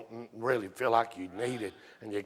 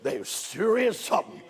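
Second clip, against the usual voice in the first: excited; 10 semitones higher, 6 dB louder than usual. Retold or imitated. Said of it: "God, he got to say it".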